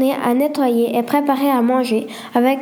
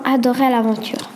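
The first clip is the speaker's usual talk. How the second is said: usual speaking voice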